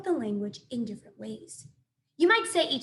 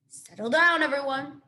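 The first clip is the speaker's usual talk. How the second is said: louder, slightly hooty owl voice; hooting owl; 5 dB louder than usual. A narrator's reading. Owl calling the animal crowd to order, hooting. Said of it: "hooted to the crowd".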